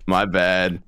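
apology said through a smile; audible smile. Real, not acted. Player owns up to a mishap, smiling. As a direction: smile as you own up. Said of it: "I can hear your smile".

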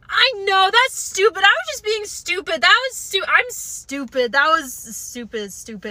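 nervous babble fading into a mutter; flustered babbling. Retold or imitated. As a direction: stammer it out, embarrassed and panicky. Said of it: "I choked, and I went".

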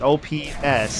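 O P Ness said as separate letters and word; careful, distinct O P Ness; perfectly clear. Shown as a demonstration. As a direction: enunciate O, then P, then Ness. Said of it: "perfectly clear".

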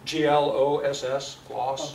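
measured, separate letters, then the word; spelling out. Shown as a demonstration. Asked how to spell gloss.

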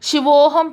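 శివోహం with a long ఓ tinged with u; o rolling towards u. Shown as a demonstration. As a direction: round the ఓ in శివోహం slightly towards ఊ. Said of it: "కొంచెం ఉకారం దొర్లుతుందన్నమాట".

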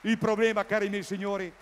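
loud, high shout of il problema. Real, not acted. The comic hammers the point to the audience, shouting. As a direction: bellow it for emphasis. Repeated louder.

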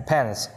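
"Pence" ending in an audible hiss; hissed final s. Shown as a demonstration. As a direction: say "Pence" and let the final s sound out. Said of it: "Âm xì nè".

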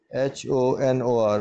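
letters spelt out slowly one by one; slow spelling. Shown as a demonstration. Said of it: "वो उसकी spelling है". (धीरे-धीरे spelling बोलें)

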